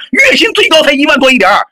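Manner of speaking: shouting through tears, voice jumping up on the question; a real sob-laden yell in the middle of an argument; crying out in frustration; tearful shout. Real, not acted. Heated argument, tearful outburst.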